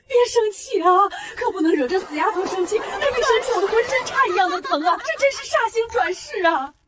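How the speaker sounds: whimpering. Acted. Fearful mother placates dreaded daughter.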